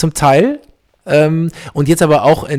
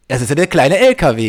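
playful East Belgian sing-song; East Belgian dialect. Pretend. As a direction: join in with broad East Belgian. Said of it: "im ostbelgischen Dialekt sprechen". (spielerisch im ostbelgischen Dialekt)

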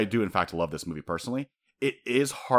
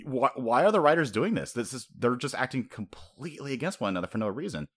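baffled, higher-pitched protest; exasperated viewer; 4 semitones higher than usual. Acted. A confused viewer questioning the writers, exasperated. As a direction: complain in disbelief at the writing.

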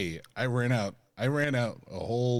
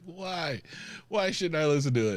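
puzzled Jeremy Renner; 7 semitones higher, 4 dB louder than usual. Retold or imitated. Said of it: "He's like".

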